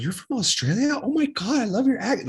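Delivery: mock gushing. Storyteller imitating girls charmed by fake Australians, gushing. Retells excited girls fooled by accent.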